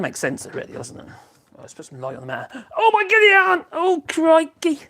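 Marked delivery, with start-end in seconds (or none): 2.8-4.8 sudden high, loud cry of surprise; startled exclamation. Real, not acted. Dazzled by the new lamp, he cries out in surprise. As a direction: yelp it as the light blinds you. Light suddenly blinds him.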